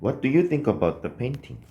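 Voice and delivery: slow and clear, every word spaced out; slow model reading. Shown as a demonstration. Teacher reading the model sentence slowly to students. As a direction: read it out slowly for the class to copy. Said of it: "써주시면 되겠습니다".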